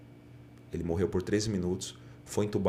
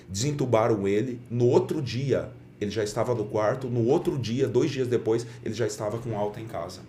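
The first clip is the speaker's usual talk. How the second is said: louder, rising excitement; excited; 3 semitones higher, 4 dB louder than usual. Real, not acted. Pastor telling the host about the miracle, excited and loud. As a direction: tell it like a miracle you just saw.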